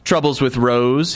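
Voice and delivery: slow, taunting jab; mocking. Friend taunting the narrator about Rose, slow mocking. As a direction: drag it out to needle him. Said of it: "he mocked".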